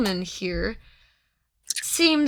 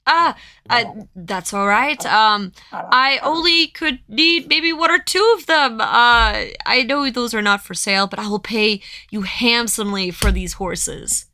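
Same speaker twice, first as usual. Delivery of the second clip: haggling merchant; 5 dB louder than usual. Acted. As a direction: push the offer. Merchant haggling over horses.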